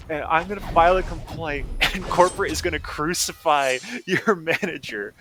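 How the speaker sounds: cussing out. Retold or imitated. Customer threatening the delivery driver with a complaint, irate. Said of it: "just cussing them out so hard".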